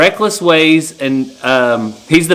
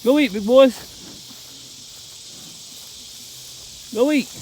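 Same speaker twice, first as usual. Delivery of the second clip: calling out; 8 semitones higher, 4 dB quieter, slower than usual. Real, not acted. Calling steers across the pasture.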